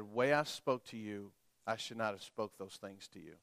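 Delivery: soft, low retold apology; apologetic dad. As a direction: voice a contrite father, quietly. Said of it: "I wanna apologize to you".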